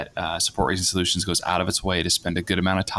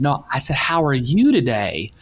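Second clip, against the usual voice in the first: higher-pitched imitation Southern accent; 5 semitones higher than usual. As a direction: repeat it insistently, imitating your wife's Southern accent.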